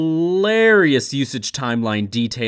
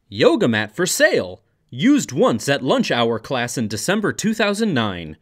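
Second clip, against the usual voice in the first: a dry, dramatic read over music; deadpan comic reading. Acted. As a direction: read the ad like a solemn diary of suffering.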